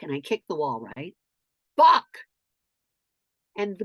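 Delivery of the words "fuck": very loud, high single shout; explosive re-enacted curse; yell. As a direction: bellow one word at the wall. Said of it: "I just yell".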